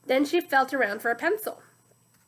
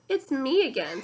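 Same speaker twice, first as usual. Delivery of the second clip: sloshy muddy voice; 3 dB louder than usual. Acted. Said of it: "like two boots sloshing through the mud".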